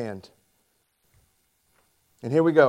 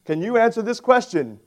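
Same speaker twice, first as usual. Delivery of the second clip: radio host; 5 semitones higher, 4 dB louder than usual. Retold or imitated. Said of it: "the radio host ... he says".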